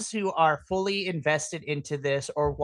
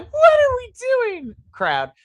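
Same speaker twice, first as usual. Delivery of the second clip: high, loud exasperated cry; shrieked frustration, dropping at the end; 7 dB louder than usual. Retold or imitated. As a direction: wail the question at the crowd, fed up. Exasperated rant at the crowd.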